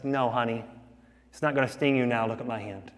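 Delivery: softening to a hushed, tender reassurance; calm the frightened child gently; gentle father. Retold or imitated. Father gently reassuring his frightened daughter, hushed and tender. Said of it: "The father gently says".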